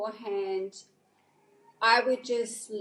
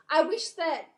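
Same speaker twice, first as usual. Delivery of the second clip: mock staff voice; 3 semitones higher, 4 dB louder than usual. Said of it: "she goes".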